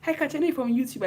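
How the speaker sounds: mock fan, high and bright; imitating a starstruck fan; fans' high greeting. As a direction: squeal hi like an excited fan. Fans greeting her excitedly.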